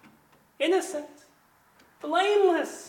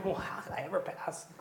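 bewildered wonder; 4 semitones lower, 9 dB quieter than usual. Acted. Congregant voiced in wonder.

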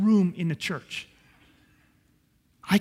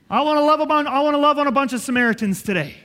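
fervent outburst; 3 semitones higher, 4 dB louder, faster than usual. Real, not acted. Preacher's passionate declaration.

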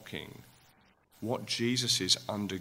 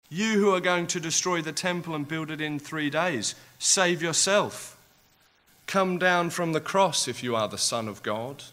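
raised, jeering taunt at a crucified man; mocking insults; 5 semitones higher, 4 dB louder than usual. Passers-by jeering up at Jesus, mocking taunt. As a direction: sneer it up at him on the cross. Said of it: "hurling insults at him".

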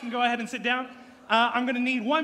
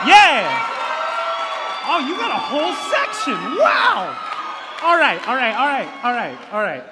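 excited shout; 8 dB louder than usual. Real, not acted. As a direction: shout over the cheering crowd. Referee reacting to cheering section.

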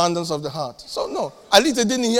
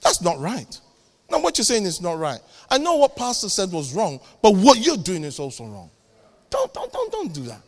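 firm correction. Retold or imitated. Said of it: "say to your friend".

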